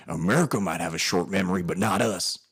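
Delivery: border officer in an accidental odd voice; odd put-on voice. Retelling the Canadian border officer's putdown, odd put-on voice. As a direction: put on a slightly overdone official's voice. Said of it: "I don't know why I sounded like that".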